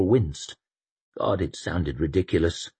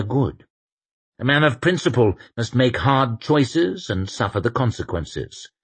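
a hint of a calm, firm inquisitor; steady, measured conviction; lightly voiced Inquisitor; 4 semitones higher, 3 dB louder than usual. Inquisitor answering Sufin, lightly voiced and firm. The speaker's reply in character.

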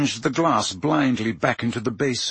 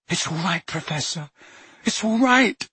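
loud reassurance; 7 semitones higher than usual. A narrator's reading. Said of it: "said Harry loudly".

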